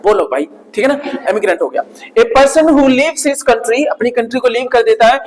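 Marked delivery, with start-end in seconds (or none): 2.2-3.8 slow dictation. Shown as a demonstration. Teacher dictates the English meaning, slowly. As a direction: dictate the definition word by word, slowly. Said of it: "teacher dictates definition".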